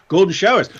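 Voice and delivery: the same words again, breaking into a laugh; laughing mock quote. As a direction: giggle the repeat. Second take laughing.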